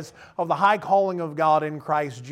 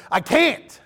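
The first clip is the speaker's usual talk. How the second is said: put-on whiny toddler; 7 semitones higher than usual. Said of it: "he just goes".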